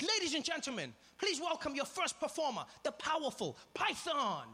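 high, booming showman announcing the act; high excited host intro, stretching the last words. Retold or imitated. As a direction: hype the crowd like a circus ringmaster. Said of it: "Deng Basan's really excited".

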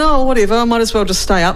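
mum deciding to stay up anyway; mock resigned mum. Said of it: "she just went".

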